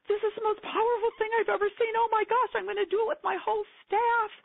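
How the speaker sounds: squealed very high, fast and breathless; gushing Oprah. Retold or imitated. Retelling Oprah raving on air, very high and fast. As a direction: gush like a thrilled talk-show host. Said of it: "She says".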